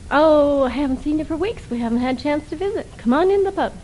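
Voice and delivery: a mild Irish brogue, urging a friend into the pub. Acted. Mike coaxing Pat into the pub in a weak Irish brogue. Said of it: "in a not a very good Irish brogue".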